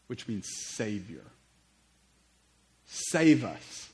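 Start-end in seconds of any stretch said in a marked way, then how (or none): 2.8-3.9 loud, emphatic cry for rescue; crowd's shout. Acted. Crowd following Jesus calls out to be saved, shouting. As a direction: call it out louder, as the crowd. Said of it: "those that followed shouted".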